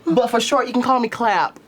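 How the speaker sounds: high, chipper greeting; cheery character voice. Acted. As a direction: greet them brightly, high. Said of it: "I'm like".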